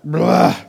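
dumping-it-out "blah" noise; blurted blah. Retold or imitated. Preacher showing his congregation how he felt, blurted blah. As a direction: let out a big overwhelmed blah.

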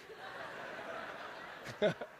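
high, quiet, strangled imitation of holding back tears; mock stifled sob. Husband beside his wife watching the speech, mock stifled sob. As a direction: act out trying to keep it in. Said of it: "I'm trying to keep it in".

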